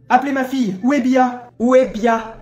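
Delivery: irritated, insistent demand; worked up. Acted. Father demanding to see his daughter, worked up. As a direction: demand it with mounting impatience. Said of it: "Pourquoi vous énervez-vous comme ça".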